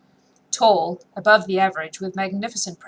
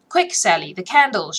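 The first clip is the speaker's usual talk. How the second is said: louder, urgent innkeeper's call; shouted order; 5 dB louder than usual. Acted. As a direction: call out loud and hurried to Sally. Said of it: "shouted Jelly".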